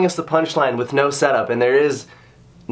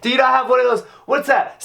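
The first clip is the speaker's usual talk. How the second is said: ordinary talk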